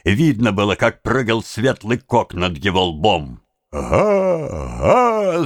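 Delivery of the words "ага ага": long, raised crowd cries; drawn-out murmur swelling into a cry; noisy crowd. A narrator's reading. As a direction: roar it like a stirred-up crowd. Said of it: "зашумела толпа".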